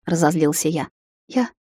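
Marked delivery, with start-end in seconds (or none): 1.3-1.5 higher, softer, tearful; sobbing confession. A narrator's reading. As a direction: confess it through a sob. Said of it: "всхлипнула она".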